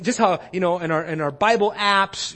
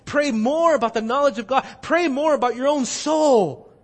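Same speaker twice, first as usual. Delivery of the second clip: each "Pray more" climbing higher and louder; rising exhortation; 4 semitones higher, 3 dB louder than usual. Real, not acted. Preacher urging singles to pray more, building. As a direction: build the refrain toward a climax.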